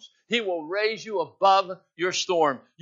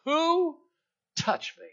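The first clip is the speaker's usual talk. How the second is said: Jesus asking; 12 semitones higher, much slower than usual. Acted. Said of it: "turned around in the crowd and said".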